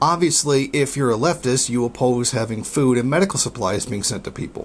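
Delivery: ordinary talk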